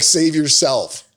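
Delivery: slow, drawn-out mock heroic; slow mock dramatic. Retelling brother's escape as a dramatic line, slow. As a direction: drag it out like a movie line. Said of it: "He's like".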